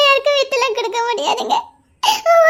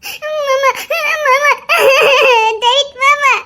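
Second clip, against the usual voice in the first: crying; slower than usual. Acted. Wife sobbing for husband.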